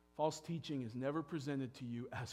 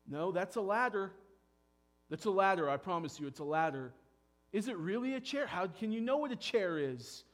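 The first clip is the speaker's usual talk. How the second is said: mock deceiver; 4 semitones higher, 4 dB louder than usual. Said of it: "me making you question".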